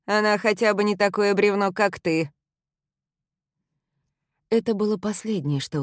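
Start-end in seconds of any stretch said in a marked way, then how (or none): 0.1-2.3 contemptuous jab. A narrator's reading. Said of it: "окинув меня презрительным взглядом, бросил".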